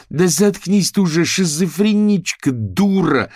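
loud, high insult; furious girl shouting; angry yell. Acted. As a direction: shout her down. Angry retort in quarrel.

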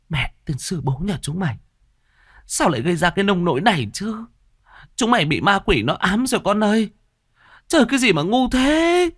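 high, rising exasperated scolding; furious mother cursing the girls' foolishness; angry scolding. Acted. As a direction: scold them, anger breaking into despair. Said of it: "bà tức lắm".

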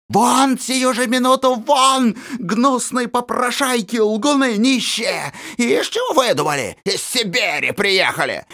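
put-on aunt frantically screaming at the children; frenzied shouting. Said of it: "Неистово продолжала она свои отчаянные крики".

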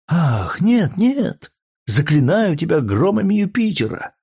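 high pleading cry of mock horror; feigned terror cry. A narrator's reading. Courtesan pleads with the gladiator, faking horror. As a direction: shriek it as if terrified, but faking. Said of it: "закричала куртизанка, притворяясь поражённой ужасом".

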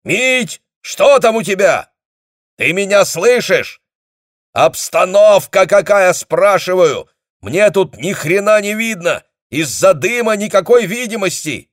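high, loud, straining to be heard; shouting into phone. A narrator's reading. Commander shouts into the phone through battle smoke. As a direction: force every word through the noise.

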